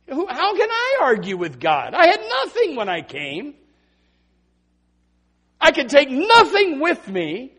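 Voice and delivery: loud, high, slowing Job; impassioned Job voice, slowing at the end; Job pleading. Acted. Preacher voicing Job's words.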